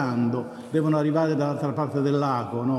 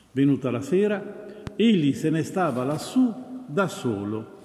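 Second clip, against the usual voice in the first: solemn Gospel reading. Acted. Priest proclaims the Gospel reading.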